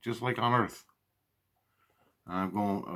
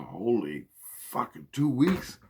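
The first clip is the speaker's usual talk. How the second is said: shocked disbelief; 4 semitones higher, 3 dB louder, slower than usual. Retold or imitated. Shocked by two-week stay.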